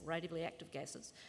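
soft, quick muttered correction; quiet aside. Real, not acted. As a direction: drop your voice and hurry the correction.

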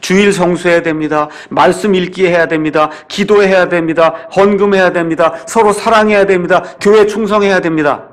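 imitating a formulaic preacher's repetitive list; rote sermon list. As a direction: reel off each duty in the same even cadence. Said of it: "피상적인 얘기를 계속 돌리는". (판에 박힌 설교를 흉내 내듯 똑같은 어조로 나열)

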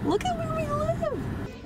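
high, slow, awed. Real, not acted. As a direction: marvel at the view. Awed at the view.

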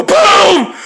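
drawn-out booming "boom"; mock bomb going off; imitated explosion. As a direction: shout it like a blast. Voices the explosion of his trap.

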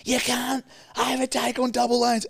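high, strained imitation of the driver; retold angry screaming. Driver scolding him over road rules, mock screaming. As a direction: mimic an outraged man scolding. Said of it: "he's screaming at me".

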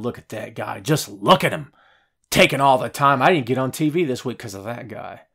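a hint of a jealous wrestler grumbling under his breath; lightly voiced envious colleague, half muttered; mock grumbling wrestler. Wrestlers griping backstage about Shane, lightly mocked grumble. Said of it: "backstage behind Shane's back going".

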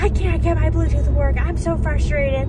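a hint of a fed-up whine; mock frustrated whine. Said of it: "I was like".

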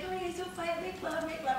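a light take on a small, frail man breaking up a fight; imitating a singer. The singer breaking up the fistfight, mildly imitated pleading. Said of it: "I can't do him".

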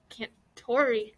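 soft, slow, hesitant whisper; whispered question. A narrator's reading. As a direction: murmur it slowly under your breath. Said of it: "Dominic whispered".

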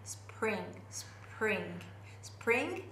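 spring, no vowel between s, p and r; spring said tight, without extra vowels; clean spring. Shown as a demonstration. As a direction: glide straight through spr in spring. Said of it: "スプリングってならないように".

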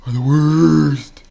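slow, loud outburst of frustration; exasperated yell. Real, not acted. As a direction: stretch it into a yelled groan. Complains about boss fights.

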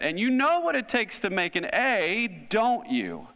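high, leading teacher's question; teasing teacher. Retold or imitated. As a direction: coax the class like a teacher. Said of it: "Like a teacher might do that".

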